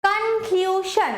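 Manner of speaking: কনক্লুশন slow, with ক্লু drawn out; stress on middle syllable. Shown as a demonstration. Teacher reading back the written word, কনক্লুশন stressed on ক্লু. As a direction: stretch ক্লু, let শন fall in কনক্লুশন. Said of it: "ক্লিউ এর ওপর বেশি পড়ছে".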